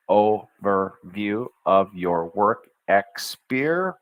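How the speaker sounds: slowly over every syllable of the phrase; slow careful retake. Shown as a demonstration. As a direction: take the phrase again slowly. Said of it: "I missed a syllable".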